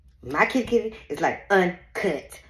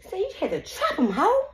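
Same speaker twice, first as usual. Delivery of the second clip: mocking laugh; 12 semitones higher than usual. Real, not acted. Mocking the woman.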